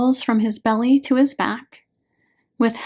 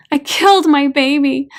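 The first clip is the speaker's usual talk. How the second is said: higher, louder wail of guilt; a weeping mother's anguished repeat; louder sobbing cry; 4 semitones higher, 7 dB louder than usual. A narrator's reading. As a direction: cry it out in despair. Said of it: "gasps and sobs".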